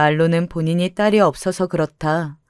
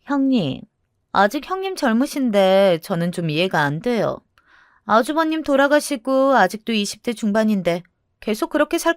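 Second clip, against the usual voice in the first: acted skeptical busybody; meddling sister-in-law; 3 semitones higher than usual. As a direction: question an in-law's motives with lifted, pointed questions.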